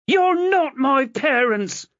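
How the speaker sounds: high, loud, slow furious yell; furious denial. Acted. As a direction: deny it with all your force. Chloe pushes at his chest.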